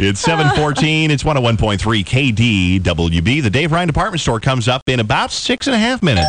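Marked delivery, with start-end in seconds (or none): 0.0-5.0 radio announcer. Acted. Radio time and station ID.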